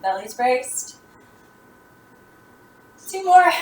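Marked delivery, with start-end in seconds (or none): 3.1-3.5 loud push for last reps; encouraging shout. Real, not acted. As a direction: call it out to motivate. Coach pushing class.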